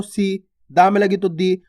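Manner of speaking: सी and दी said with short, quick i vowels; सी, दी brief, not drawn out. Shown as a demonstration. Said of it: "इसका उच्चारण जल्दी से कर देना है".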